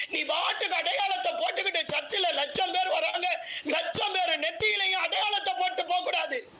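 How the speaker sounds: high, ringing divine command; the Lord commanding. Acted. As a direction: speak as the Lord ordering his angel. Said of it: "தூதனை பார்த்து ஆண்டவர் சொல்லுகிறார்".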